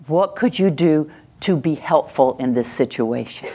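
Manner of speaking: gentle, unhurried helpful question; helpful framing. Shown as a demonstration. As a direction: ask it as a kind offer of help. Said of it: "See the difference".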